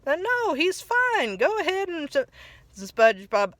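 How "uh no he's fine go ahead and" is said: a friend playing it off, pitched up; Patrick imitated, dismissive. Patrick covering up, retold.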